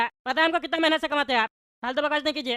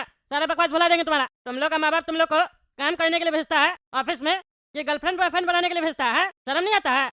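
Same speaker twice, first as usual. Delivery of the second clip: indignant elder's telling-off; angry scolding. Acted. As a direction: confront and shame the youngster, mildly heated. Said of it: "इतना गुस्सा में घूम रहा है".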